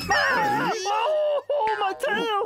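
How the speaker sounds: high, loud pained yelp over a grabbed tail. Acted. Bear yelping as the kid bites his tail, pained high yelp. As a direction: cry out as the tail gets bitten.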